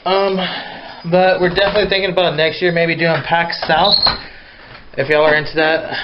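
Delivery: out of breath from the stairs. Real, not acted. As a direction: talk while out of breath. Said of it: "Sorry, just catching my breath here".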